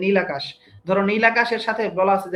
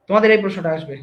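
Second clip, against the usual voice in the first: তোমাদের এই প্রশ্নটা আসবে said louder, with weight on এই; emphatic warning; 5 dB louder, faster than usual. Real, not acted. Teacher warning students the question will come, louder and emphatic. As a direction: press the point home, louder, stressing এই. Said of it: "দেখো".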